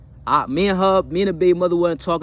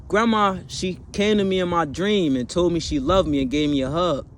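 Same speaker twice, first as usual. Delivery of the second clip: put-on higher childlike plea; little kid voice; 4 semitones higher than usual. Two-year-old son asking dad in car, childlike. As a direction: voice a small boy asking sweetly. Toddler son tells his dream.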